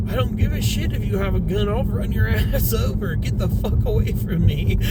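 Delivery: high-pitched mock fury; imitated angry threat. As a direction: mimic the wife warning him off. Wife threatens the man back.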